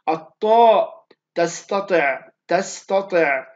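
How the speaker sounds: "تستطع" slow and loud, with a thickened "ط"; heavy TA. Shown as a demonstration. Teacher gives students an example, "تستطع" slow with heavy "ط". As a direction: punch out "الطاء", then draw out "تستطع" with a full-mouthed "ط". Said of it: "الحرف الطاء".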